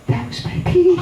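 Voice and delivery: tiny, very high sheepish voice; high-pitched confession. Retold or imitated. Confessing to his soaked buddy, high squeak. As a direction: squeak it out, rising at the end.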